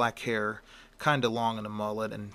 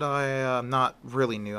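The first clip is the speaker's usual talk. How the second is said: flustered stammer; 2 semitones higher, 5 dB louder than usual. Acted. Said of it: "He was beginning to stammer".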